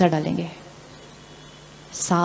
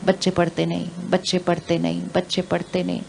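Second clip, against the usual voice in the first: repeated complaint; 3 semitones lower, 8 dB quieter than usual. Retold or imitated. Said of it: "रोज़ उच्चारण होता है".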